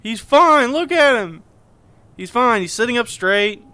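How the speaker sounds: insistent, high and loud. Real, not acted. Insisting dead friend is fine.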